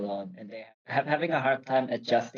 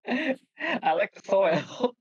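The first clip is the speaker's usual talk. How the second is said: higher, slow goofy voice; playful pretend potato voice; silly potato voice; 11 semitones higher, much slower than usual. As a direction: speak as the potato, slow and high. Voicing the potato friend jokingly.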